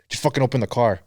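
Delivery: mildly irritated order, retold without raising it; retold curt irritation. Pissed friend wanting the car opened, understated irritation. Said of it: "He was pissed, dude".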